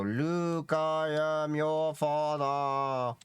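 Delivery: choppy fan-warbled Darth Vader line. Retold or imitated. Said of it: "speak into the fan as it's rotating around".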